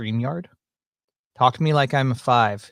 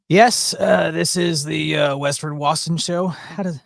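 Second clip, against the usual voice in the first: impression of a friend; 3 semitones higher than usual. Host imitating a foul-mouthed friend's show intro, put-on voice. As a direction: announce the show as your buddy would. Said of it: "I can't do an impression with him".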